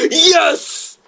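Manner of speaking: simple high-pitched cheer; just saying yes. Shown as a demonstration. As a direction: exclaim it in your own voice. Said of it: "I was just saying".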